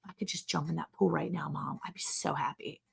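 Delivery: put-on soft pleading kid, half whispered; whiny kid voice. Kid begging mom to swim, whiny and hushed. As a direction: beg mom like a sulky child.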